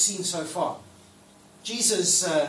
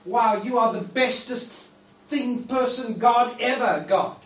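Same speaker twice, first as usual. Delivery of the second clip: enthusiastic praise; 3 semitones higher, 3 dB louder, slower than usual. Pretend. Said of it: "but in a".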